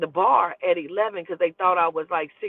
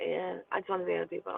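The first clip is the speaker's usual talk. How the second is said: breezy; 10 dB quieter, much faster than usual. Retold or imitated. Breezy quote to boyfriend.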